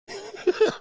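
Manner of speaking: short high-pitched scoffing laugh; a quick squeaky laugh at the chat; high mocking laugh. Real, not acted.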